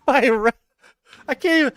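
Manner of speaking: high, loud, broken by laughter; helpless giggles breaking up the words; laughing too hard to read. Real, not acted. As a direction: try to read aloud while cracking up. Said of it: "I can't read it without laughing".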